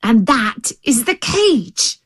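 deliberate, impatient tiger; exasperated tiger. Acted. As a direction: spell it out for a dunce.

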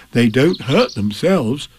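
slow, lightly voiced bear; unhurried, earnest character voice; Pooh's voice. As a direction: explain it slowly and simply. Pooh reassures Piglet.

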